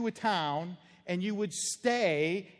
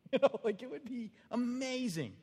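1 laughing; 7 semitones higher than usual. Real, not acted. Laughing at tax refund joke.

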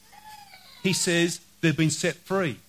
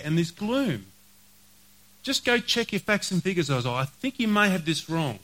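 sceptical challenge, often pitched a little up; doubting Israelites; 2 semitones higher than usual. Acted. Preacher voices Israelites challenging Isaiah, sceptical. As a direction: question the prophet with open doubt. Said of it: "the Israelites might sit, sit there and say".

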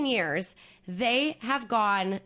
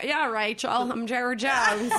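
put-on slow, drawled southern accent as Jerry Jones; a hammed-up southern accent of Jerry Jones; slower than usual. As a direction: lay on a thick southern accent, half laughing. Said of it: "Sounds like Harry Carey".

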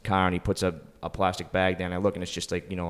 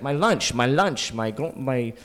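mock stranger complaining; 4 semitones higher, slower than usual.

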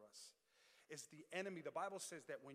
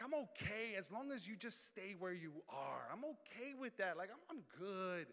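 higher-pitched, animated mock reassurance; mock complacency; 4 semitones higher, 4 dB louder than usual. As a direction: lightly act out an enemy who is fine with it. Voices the enemy's complacency.

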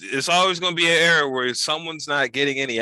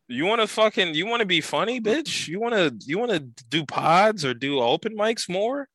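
mock hype voice; 6 semitones higher than usual. Mock hyping up a comic.

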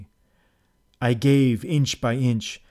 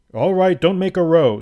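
louder, higher, brushing-off host; host from passage; 7 semitones higher, 6 dB louder than usual. A narrator's reading. Host to trapped guest, dismissive. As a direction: wave away the guest's alarm.

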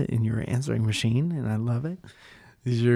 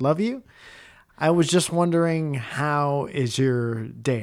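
blurted love you; 3 semitones higher, 4 dB louder, slower than usual. Retold or imitated. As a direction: gush it out awkwardly. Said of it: "And I said".

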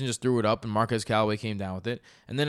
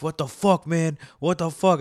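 mock frustrated manager, louder and higher; exasperated outburst; 5 semitones higher, 4 dB louder than usual. Fantasy manager venting at his benched star, exasperated. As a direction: throw up your hands in disbelief. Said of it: "he's like".

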